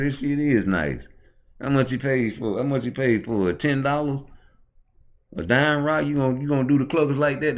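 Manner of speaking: loud, high, rapid hollering; rowdy street taunts. Pretend. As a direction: heckle him like a rowdy crowd.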